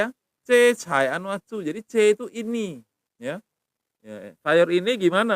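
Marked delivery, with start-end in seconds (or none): 0.4-1.6 C Chai Anwatsu said slowly, C as ch; slow careful C. Shown as a demonstration. Teacher repeating the Thai word slowly for students. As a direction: drill C Chai Anwatsu with a ch sound. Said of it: "pakai C".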